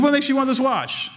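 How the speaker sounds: jeweler's question. Retold or imitated. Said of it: "he said".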